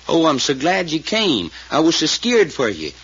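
slow, lightly voiced sweet pleading; imitating a pleading voice. Man imitating his frightened cousin's plea to her sister, slow and mildly pleading. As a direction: soften it into a trembling plea, slowly. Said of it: "sweet things in a kinda pleading voice".

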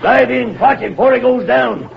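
high-pitched calling out orders; captain calling urgently to a crewman overboard; urgent command. Acted. Captain orders rescue from river.

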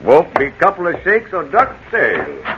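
lightly voiced West Country yokel; a friendly menace behind the country charm; country gardener chatting to the old lady; rustic gardener.

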